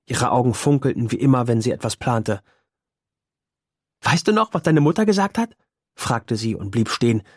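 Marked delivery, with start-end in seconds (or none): 4.0-5.5 high, teasing girl's voice with a hint of laughter; a young girl holding back a laugh as she teases; amused girl. A narrator's reading. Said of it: "der Anflug eines Lachens in ihrer Stimme". (Mädchenstimme, hoch, mit einem Anflug von Lachen)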